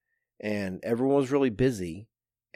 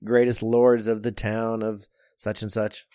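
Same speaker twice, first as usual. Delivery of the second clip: town crier; 2 semitones higher, 4 dB louder than usual. Retold or imitated. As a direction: announce to the lords like a crier. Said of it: "it's like an old eighteenth century".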